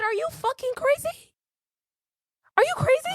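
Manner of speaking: high, disbelieving yell at the driver; incredulous confrontation. Retold or imitated. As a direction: throw it at her in disbelief.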